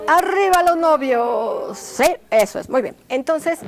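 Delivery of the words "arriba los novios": loud, high cheer for the couple; shouted cheer. Shown as a demonstration. Teacher leads the class's cheer for the couple, loud and high. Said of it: "todos gritamos".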